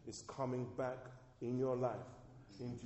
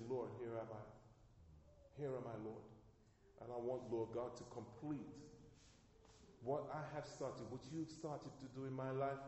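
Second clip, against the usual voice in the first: hushed prayer; 2 semitones lower, 9 dB quieter than usual. Pretend. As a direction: pray it softly and humbly, almost to yourself. Quoted humble prayer to God.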